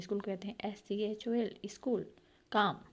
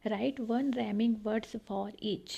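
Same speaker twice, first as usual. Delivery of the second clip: slow reading; much slower than usual. Shown as a demonstration. Teacher reads an instruction aloud.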